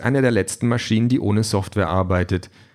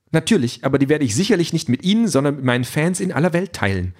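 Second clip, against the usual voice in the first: higher, quick, grand android; proud android voice; 6 semitones higher, faster than usual. A narrator's reading. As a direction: brush him off grandly. Calliope answers proudly.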